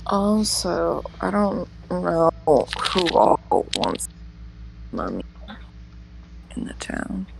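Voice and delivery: raspy, breathy smoker voice; husky character voice; smoker's rasp. Acted. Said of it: "Petunia's got a bit of a smoker's voice today".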